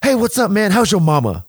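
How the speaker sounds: high, loud, chummy greeting; Mister Belding hailing a stranger, hammed-up friendly; imitating Dennis Haskins. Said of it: "Dennis Haskins walks up to me and goes".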